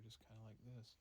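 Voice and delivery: usual speaking voice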